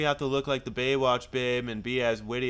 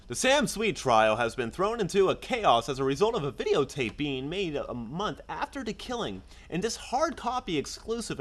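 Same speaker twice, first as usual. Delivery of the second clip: news anchor read; 2 semitones higher than usual. Acted. Reads a TV news update.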